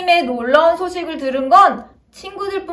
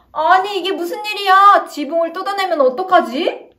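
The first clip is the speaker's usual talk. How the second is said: startled; 5 semitones higher than usual. Acted. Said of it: "깜짝 놀랐어요".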